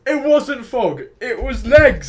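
high, loud squabbling correction; loud rebuttal. Real, not acted. Friend correcting the fog claim, loud rebuttal. Arguing over what appeared.

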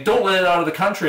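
lightly acted panicky command; freaking out. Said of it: "were freaking out".

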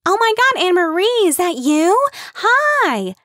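very high, loud squealing greeting; excited calling out. Acted. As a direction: call across the picnic to a friend. Kim spots a friend, calls out.

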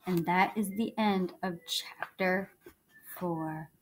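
soft unvoiced bedtime whisper. Real, not acted. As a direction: whisper it to close the chapter. Closing the bedtime chapter.

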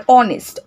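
"অনেস্ট" opening on a pure "o" vowel; silent H. Shown as a demonstration. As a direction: say "অনেস্ট" with no H, starting on "o". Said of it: "অ এর উচ্চারণ আসছে".

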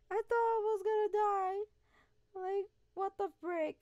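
laughing it out with relief; breathless laugh after a close call; relieved laughter. Real, not acted. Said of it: "relieved laughter".

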